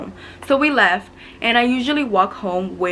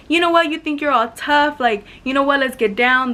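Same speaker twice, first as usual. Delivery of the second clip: lightly acted challenge, pitched up; higher-pitched imitation of a rival's dare; mock confrontation; 5 semitones higher, 3 dB louder than usual. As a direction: retell a rival squaring up for a fight. Acted schoolyard challenge between rivals.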